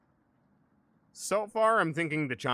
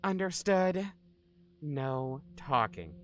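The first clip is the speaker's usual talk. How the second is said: put-on slow, menacing psycho girl voice; crazy psychopath girl; 3 semitones higher, slower than usual. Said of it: "You do a crazy psychopath girl voice really well".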